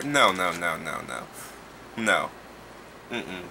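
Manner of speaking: low, fading string of no's; trailing rejection. Real, not acted. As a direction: shake your head as the no's die away. Trailing refusal.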